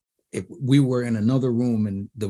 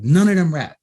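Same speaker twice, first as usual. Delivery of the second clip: louder, higher retold objection; incredulous protest; 6 semitones higher, 8 dB louder than usual. Producer objecting to kids in the studio, incredulous. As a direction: push it out in disbelief.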